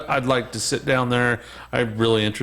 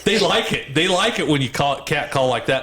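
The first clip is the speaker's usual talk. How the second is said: mock dad voice; 5 semitones higher than usual. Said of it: "he's like".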